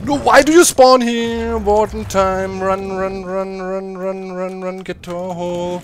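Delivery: panicked high loud yelling; being chased. Real, not acted. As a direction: shout in a panic while fleeing. Warden spawns, fleeing in panic.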